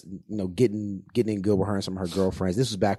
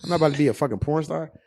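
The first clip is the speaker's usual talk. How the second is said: higher and louder, mock outrage; incredulous rant; 9 semitones higher, 9 dB louder than usual. Telling his girlfriend she is crazy, loud mock outrage. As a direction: rant like she's lost her mind. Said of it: "I'm like".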